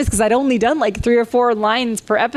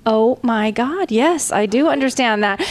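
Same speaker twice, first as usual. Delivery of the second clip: amazed; 4 semitones higher, slower than usual. Retold or imitated. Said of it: "I was like".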